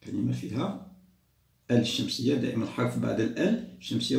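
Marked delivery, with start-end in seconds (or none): none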